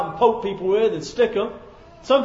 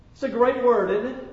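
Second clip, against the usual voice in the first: ordinary talk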